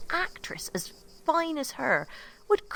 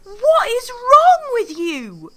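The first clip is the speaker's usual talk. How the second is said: loud, higher, slow and accusing; angry outburst; 10 semitones higher, 15 dB louder, slower than usual. Acted. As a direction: demand it of him, furious. Nina confronts Constantine.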